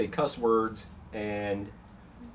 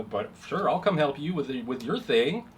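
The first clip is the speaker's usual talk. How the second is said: sarcastic mock agreement; 4 semitones higher, 3 dB louder than usual. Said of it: "giving them shit".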